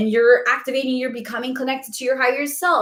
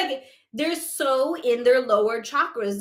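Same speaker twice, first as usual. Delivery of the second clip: ordinary talk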